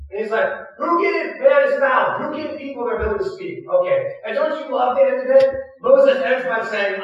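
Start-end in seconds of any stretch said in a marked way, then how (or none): 0.8-3.6 booming rebuke. Retold or imitated. Pastor voicing God rebuking Moses, booming rebuke. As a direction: thunder the question back at him.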